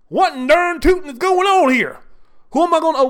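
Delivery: put-on over-the-top Southern redneck accent, indignant; mock Southern accent. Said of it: "make fun of folks from down south by using those stereotypical".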